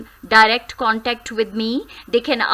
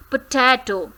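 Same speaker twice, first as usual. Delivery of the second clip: Potato with ta stressed; potato, lean on the middle. Shown as a demonstration. Teacher modelling potato, middle syllable stressed. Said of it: "stressed is on te".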